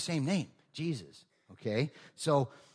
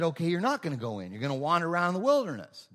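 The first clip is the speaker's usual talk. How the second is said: raised, fast stern verdict from God; 4 semitones higher, 5 dB louder, faster than usual. Acted. Preacher voicing God's stern verdict, louder and fast. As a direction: pronounce the sentence like an angry God.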